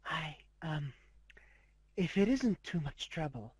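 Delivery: soft, hesitant shy pony; timid Fluttershy. Acted. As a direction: barely dare to ask. Fluttershy shyly addresses warden.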